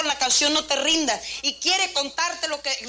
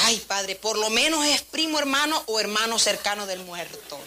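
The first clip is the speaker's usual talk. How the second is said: amused aside. Retold or imitated. Joking aside at the funeral.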